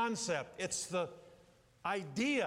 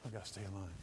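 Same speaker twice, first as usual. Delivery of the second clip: kids mock awe; 11 semitones lower, 5 dB quieter, faster than usual. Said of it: "They go".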